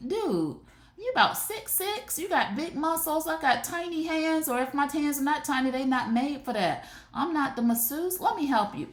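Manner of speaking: high-pitched, fast protest; mock exasperated reply. She refuses to massage her huge boyfriend, high squeaky protest. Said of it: "And you like".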